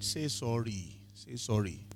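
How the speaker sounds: softly, low, nudging; quiet, soft urging retold; God's gentle prompting. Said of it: "And God said".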